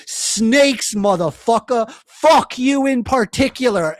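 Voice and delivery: loud, mocking wrathful God, spitting out the insults; hammed-up angry God, slowing down on the snakes; furious God. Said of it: "God was like".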